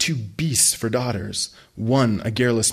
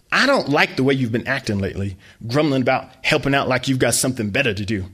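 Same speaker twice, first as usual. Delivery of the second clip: berating mom; 3 semitones higher, 4 dB louder than usual. Acted.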